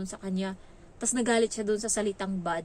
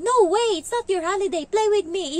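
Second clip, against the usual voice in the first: imitating the child; 10 semitones higher, 9 dB louder than usual. Child refusing nanny's day off.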